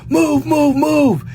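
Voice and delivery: urgent high-pitched command; yelling out. A narrator's reading. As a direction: yell it out like a squad leader. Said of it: "the squad leader yells out".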